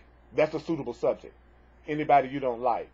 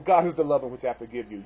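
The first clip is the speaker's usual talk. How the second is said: begrudging forgiveness; 5 dB louder than usual. Shown as a demonstration. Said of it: "You don't have to necessarily say it in a really nicey, nicey way".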